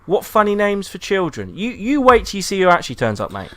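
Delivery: high, prissy mock princess voice, big laugh; mocking Snow White. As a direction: squeal it like a snooty princess. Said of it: "And she goes".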